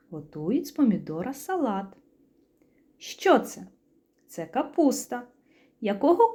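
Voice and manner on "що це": a hushed, secretive whisper; teacher whispers the riddle to the children. Acted. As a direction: whisper the question to build curiosity.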